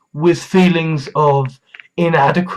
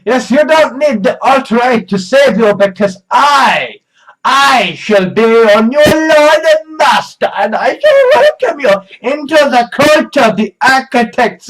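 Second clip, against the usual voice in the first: megalomaniac rant; 6 semitones higher than usual. Pretend. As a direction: proclaim like a grandiose cult lord. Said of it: "the part where I then say".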